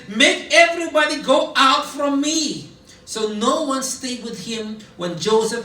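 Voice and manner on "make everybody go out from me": loud anguished command; crying out. Acted. Joseph ordering everyone out, loud cry. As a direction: send everyone out, voice raised. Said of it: "He cried and said".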